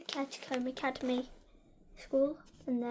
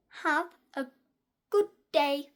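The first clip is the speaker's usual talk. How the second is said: cheerful goodbye; 6 semitones higher, 14 dB louder, slower than usual. Real, not acted.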